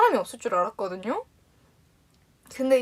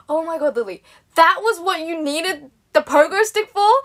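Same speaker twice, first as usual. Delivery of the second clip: raised, louder excited realisation; happy amazement; 4 semitones higher, 5 dB louder, slower than usual. Retold or imitated. Mum finding out about the TV show, happy amazement. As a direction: retell mum's delighted surprise, drawn out. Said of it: "she was really happy about it".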